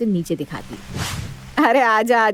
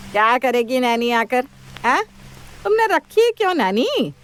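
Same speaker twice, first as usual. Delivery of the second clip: indignant scolding; 3 semitones higher than usual. Acted. Mother-in-law objects to nanny.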